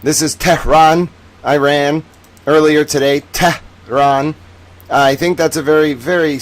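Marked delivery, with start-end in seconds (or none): 0.3-1.1 Tehran split into "TEH... rahn"; pointed, separated "TEH, rahn"; mock correction. Shown as a demonstration. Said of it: "Uh, sorry". 3.3-4.3 Tehran split into "TEH... rahn"; pointed, separated "TEH, rahn"; mock correction. Shown as a demonstration. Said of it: "Uh, sorry".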